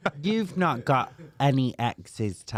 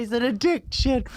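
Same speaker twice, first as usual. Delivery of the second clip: high, laughing mock confession; mock dramatic; 12 semitones higher than usual. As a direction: ham up the confession. Joking about gummies.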